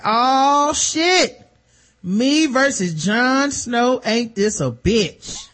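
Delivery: high, slow, cocky villain drawl; mock villain bravado. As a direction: ham up the cocky brawler sizing up his rival. Villain's boastful retold quote.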